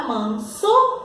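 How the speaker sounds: "manso" slowly, man-so, with a clear S; "manso" in two measured syllables; sounding out S. Shown as a demonstration. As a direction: stretch "manso" so the S is heard. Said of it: "Mantém o seu som original".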